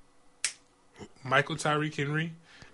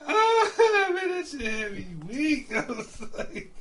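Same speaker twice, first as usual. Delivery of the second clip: high, loud laughing wail; weak with laughter; 5 dB louder, slower than usual. Real, not acted. Laughing at the friend's mom story, high laughing wail.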